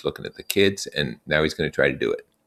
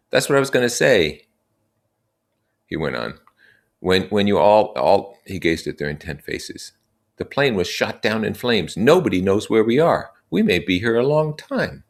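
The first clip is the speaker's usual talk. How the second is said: put-on raised, earnest young leader; Ralph addressing the boys; 5 semitones higher, 4 dB louder than usual. Ralph explaining their situation to the assembly, earnest and raised. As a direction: lay out the facts to the group.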